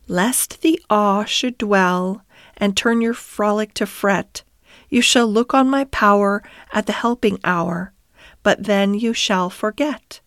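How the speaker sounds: measured incantation, lightly intoned; verse recitation. Acted. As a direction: recite it as a mysterious song in verse. Rat recites the song's words.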